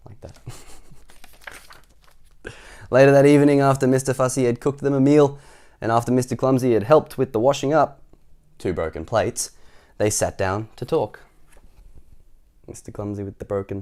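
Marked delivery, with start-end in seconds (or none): 2.9-8.0 projected, lively read-aloud; story narration. A narrator's reading. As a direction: carry the story along brightly. Reads story to children.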